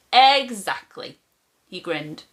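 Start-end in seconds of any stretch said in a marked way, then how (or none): 0.1-1.2 slow, louder, higher grinning Grandad; a beaming old man savouring the word; Grandad's grin. A narrator's reading. Grandad to grandson, slow and pleased.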